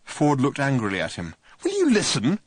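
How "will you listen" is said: high, louder impatient snap; snapped. A narrator's reading. Ford snapping at Arthur for not listening. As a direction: bite it off in exasperation. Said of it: "he snapped".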